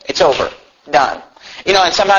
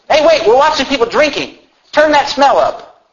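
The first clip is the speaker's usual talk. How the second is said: higher-pitched mock request; acted call-out; 7 semitones higher than usual. Viewer watching drinkers wants the smell up, acted call-out.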